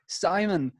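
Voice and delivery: high, drawn-out manager impression; Louis Walsh. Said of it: "and Louis like".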